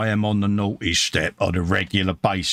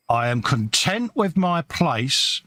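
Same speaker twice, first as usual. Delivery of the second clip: Ronnie Barker quote; 4 semitones higher, slower than usual. Retold or imitated. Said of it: "as Ronnie Barker would say".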